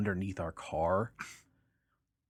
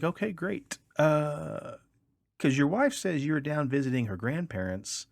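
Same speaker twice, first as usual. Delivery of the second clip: smug trooper; 7 semitones higher than usual. Retold or imitated. Cop catches contradiction.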